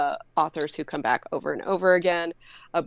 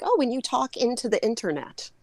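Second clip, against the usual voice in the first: higher-pitched mock mom voice; imitating mother; 6 semitones higher than usual. Mother who doesn't understand what a podcast is, imitated. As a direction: play a clueless mother, pitched up. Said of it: "She's always like".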